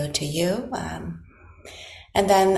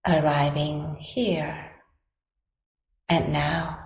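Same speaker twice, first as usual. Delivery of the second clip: guided meditation. Acted. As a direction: gently guide them into stillness, leaving long silences between phrases.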